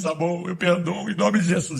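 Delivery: mock tearful giving in; tearful surrender, lightly acted. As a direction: yield after losing the fight. Believer gives in, crying.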